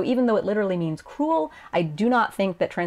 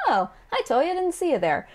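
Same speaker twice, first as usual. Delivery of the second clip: casual sass, pitched up then falling; sarcastic; 8 semitones higher than usual. Acted. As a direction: snub him with breezy attitude. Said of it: "be kind of sarcastic".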